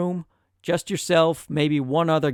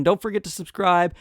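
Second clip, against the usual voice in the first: upbeat outro; 4 semitones higher, 4 dB louder than usual. Real, not acted. Cheery vlog outro.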